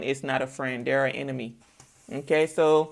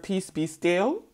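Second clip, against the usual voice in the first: slow peace be still; slower than usual. Retold or imitated. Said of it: "I just heard".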